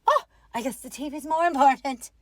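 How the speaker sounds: quick, mocking sarcastic jab; sulky sarcastic wife. Wife taking offense at husband's show, mock sarcastic. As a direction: imitate the wife brushing him off. Wife's sulky retort, imitated.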